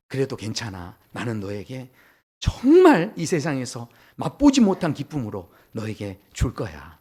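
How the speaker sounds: low, hushed reassurance, swelling on the promise; tender forgiveness. Acted. God forgiving the mocker and promising joy, tender and earnest. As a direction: soothe gently, then press the promise.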